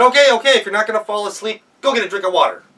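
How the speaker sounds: high, loud and fast exasperated snap; wolf fed up with the crying girls; irritated wolf. Acted. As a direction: give in with annoyance. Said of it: "made the wolf angry".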